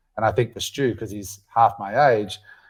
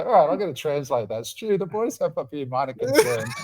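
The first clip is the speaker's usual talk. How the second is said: high, laughing, over-polite; smooth it over with a grin; mock diplomat Perry; 4 semitones higher than usual. Perry softening the boys' complaint for Stu, laughing. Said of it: "Perry being able to say".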